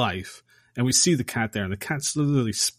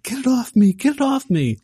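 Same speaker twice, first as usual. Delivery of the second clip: much higher and louder mock yell; hammed-up frantic shriek; 14 semitones higher, 6 dB louder than usual. Herbert yelling at Dan to remove the cat, mock panic. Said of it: "he starts yelling at Dan".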